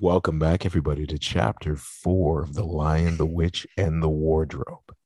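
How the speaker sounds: lightly voiced audiobook host; a hint of a storyteller intro; audiobook narrator. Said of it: "That would be".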